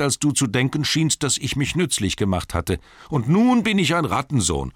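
high-pitched, aggrieved little hobbit; indignant Bilbo. A narrator's reading. Bilbo defends his fourteenth share to Thorin, indignant. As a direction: argue your case in a high voice.

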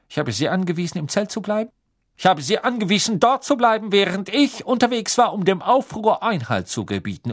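stern, rising loud official; stern judgement. A narrator's reading. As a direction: pronounce the sentence coldly. Crouch passes stern judgement.

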